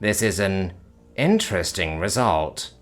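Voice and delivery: detached clinical calm; calm alien. Acted. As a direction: alien reassuring the panicked human. Alien reassures calmly.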